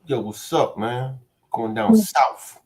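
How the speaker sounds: joking fake Scottish brogue; mock Scottish accent. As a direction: ham up a bad Scottish accent. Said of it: "a Scottish accent".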